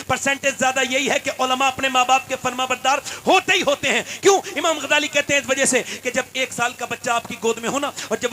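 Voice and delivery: loud, fervent sermon delivery; fiery pulpit preacher rousing the faithful; preaching at full force. Acted. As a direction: preach it hard to the crowd. Cleric preaching to congregation.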